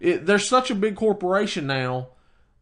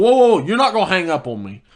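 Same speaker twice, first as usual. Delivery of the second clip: loud, fast "whoa, whoa, whoa" cutting him off; raised retold protest; 6 dB louder, faster than usual. Customer stopping the support agent from hanging up, loud and fast. Caller about to hang up.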